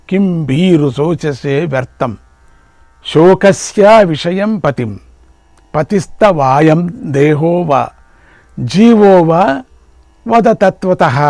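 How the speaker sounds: slow, drawn-out scriptural recitation; Sanskrit verse recitation. Acted. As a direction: intone the verse, lengthening the long syllables.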